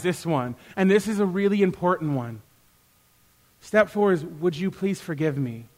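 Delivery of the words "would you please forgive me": soft, lower humble asking; humble plea for forgiveness; gentle request. Shown as a demonstration. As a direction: ask it quietly, leaving the choice open. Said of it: "Please notice the question mark".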